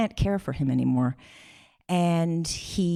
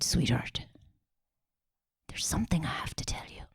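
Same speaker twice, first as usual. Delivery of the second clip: frail dying father; 7 dB quieter than usual. Retold or imitated. Dying dad confides in his children, whispered and weak. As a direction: barely voice it, like a frail man in bed.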